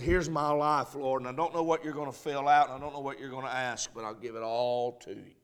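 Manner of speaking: hushed, quick giving up of everything; humble surrender. Acted. Isaiah surrenders his life to God, hushed and quick. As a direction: murmur it fast, handing over your life.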